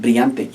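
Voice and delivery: brillante with the double L said as a Y sound; brillante, LL like an English Y; spanish double L as Y. Shown as a demonstration. Teacher to class, modelling brillante with LL as Y. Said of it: "the double L, it makes the Y sound".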